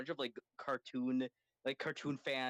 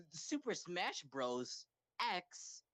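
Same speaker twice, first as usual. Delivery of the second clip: slow, higher-pitched mock announcer; hammed-up trailer voice with dramatic pauses; game trailer announcer; 6 semitones higher, much slower than usual. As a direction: announce a big crossover reveal, very drawn out. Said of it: "like, the trailers, like, in Smash".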